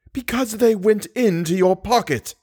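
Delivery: put-on gasped, high old woman; panting it out as an old crone; breathless old person. A narrator's reading. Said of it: "gasped the old woman".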